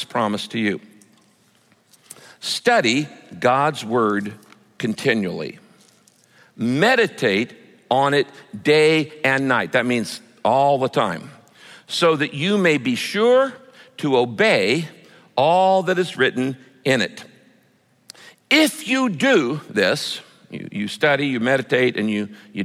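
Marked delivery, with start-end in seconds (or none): 2.4-9.7 slow, weighty verse reading with pauses; deliberate scripture reading. Acted. Reads the verse aloud. 11.9-20.2 slow, weighty verse reading with pauses; deliberate scripture reading. Acted. Reads the verse aloud.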